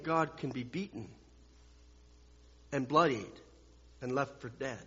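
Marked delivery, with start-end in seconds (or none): none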